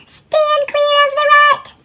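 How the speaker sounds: high, slow, firm squirrel voice; squirrel instructing. Acted. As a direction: order her clear like a small squirrel. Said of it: "instructed a squirrel".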